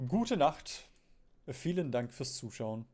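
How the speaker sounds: German said with an English accent; English speaker's stiff German accent. Shown as a demonstration. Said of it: "in such a, such an English German accent".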